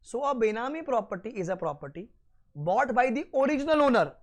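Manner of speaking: slow, deliberate note dictation. Acted. Teacher dictating notes slowly to students taking them down. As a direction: spell it out word by word for note-taking.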